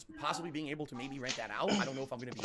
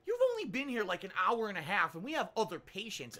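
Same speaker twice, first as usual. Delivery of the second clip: mock nurse voice; 7 semitones higher than usual. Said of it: "She's like".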